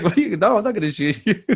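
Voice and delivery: high, loud, laughing protest, retold; amused refusal. Dad refusing to shoot his son, amused protest. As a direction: refuse in mock disbelief, laugh creeping in. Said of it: "I was like".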